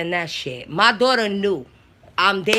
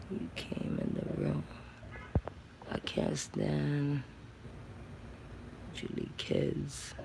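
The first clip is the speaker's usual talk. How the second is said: whispered quote; 8 semitones lower, 17 dB quieter, slower than usual. Retold or imitated.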